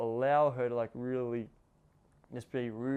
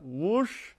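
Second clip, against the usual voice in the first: rough whoosh; 4 semitones higher than usual. Shown as a demonstration. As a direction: imitate a sudden rush of movement. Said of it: "ru-, rough".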